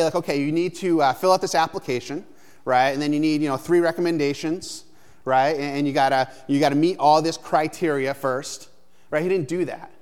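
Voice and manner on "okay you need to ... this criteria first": lightly voiced form-filling clerk, a bit louder; mock bureaucrat. Pastor mocking a hiring-process Jesus, light mock clerk. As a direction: list the requirements like a fussy admissions office. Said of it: "Jesus didn't say".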